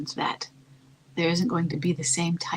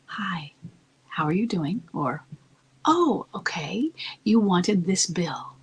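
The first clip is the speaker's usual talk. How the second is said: calm voice; slower than usual. Shown as a demonstration. Wife calmly answering her angry husband on the phone. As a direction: answer him gently, in no hurry. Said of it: "I want you to put on this calm voice".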